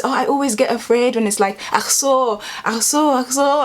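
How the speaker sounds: imitating a passenger afraid of turbulence; mild mock fear.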